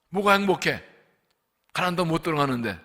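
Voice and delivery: a hint of a booming divine question; God questioning Moses. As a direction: voice God asking in disbelief.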